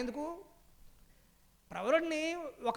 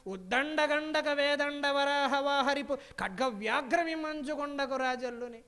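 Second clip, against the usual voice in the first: verse recitation; slower than usual. Acted. Quotes verse line again.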